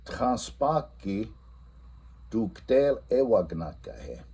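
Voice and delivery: "Transpaki" drawn out very slowly; teacher quizzing the class in Lakota; slow quiz question. Shown as a demonstration. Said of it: "and then I ask".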